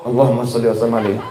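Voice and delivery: low, quick, soft grudging recitation; reluctant response. Acted. Husband obliged to answer his wife's sholawat, reluctant low response. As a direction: give in and rattle it off under your voice. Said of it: "mau tidak mau".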